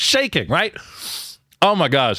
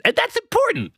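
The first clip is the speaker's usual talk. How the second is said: emphatic repeat. Acted. Repeats point even higher.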